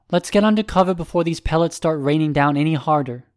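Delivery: lightly voiced team-mate urging cover; a hint of a character, pitched slightly up; Coiffure's character voice. Coiffure urging the group under cover, lightly voiced character.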